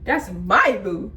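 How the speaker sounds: slow, disbelieving repeat; repeating the taunt in shock; stunned echo. Retold or imitated. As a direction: let it sink in slowly. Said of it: "I'm like, "Whoa".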